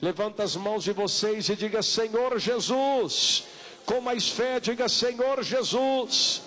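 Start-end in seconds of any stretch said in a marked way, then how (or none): none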